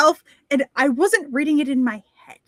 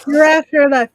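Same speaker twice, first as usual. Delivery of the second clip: announcer title; 11 dB louder than usual. Retold or imitated. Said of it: "every time somebody goes, "Your afterlife".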